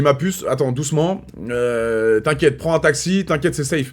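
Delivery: soft, calming reassurance to a scared friend; reassuring. Retold or imitated. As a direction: gently talk her down. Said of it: "Je lui dis". (rassurant et doux)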